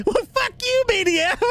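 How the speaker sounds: high, giggling fake insult back; laughing mock insult. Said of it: "you screaming, "Fuck you".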